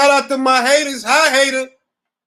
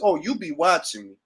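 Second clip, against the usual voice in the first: knowing murmur; 6 semitones lower, 6 dB quieter than usual. Retold or imitated. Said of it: "The only way you can reconcile that is".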